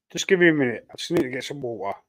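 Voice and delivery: throat catching from a cough; choking. Real, not acted. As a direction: speak through a tickly, choking throat. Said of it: "I'm choking".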